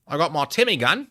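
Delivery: hammed-up gangster-Aussie accent; Australian-American gangster accent. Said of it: "nineteen twenties American gangster went to Australia".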